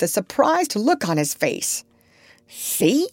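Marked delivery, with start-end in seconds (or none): 2.5-3.1 cry. A narrator's reading. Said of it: "cried Dab-Dab".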